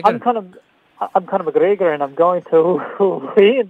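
badly faked Irish accent; half-hearted Conor McGregor impression. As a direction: attempt an Irish fighter's boast, cracking up midway. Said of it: "do your best Conor McGregor impersonation".

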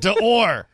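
mock-patriotic American "D'Or"; American pronunciation. Shown as a demonstration. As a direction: say "D'Or" as a proudly un-French word. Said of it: "we say it this way".

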